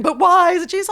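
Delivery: mock whiny men. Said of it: "crying men just going".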